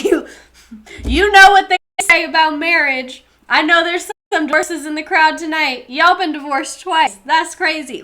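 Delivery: high-pitched stand-up comic routine; Kevin Hart. Acted. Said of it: "immediately just turn into Kevin Hart".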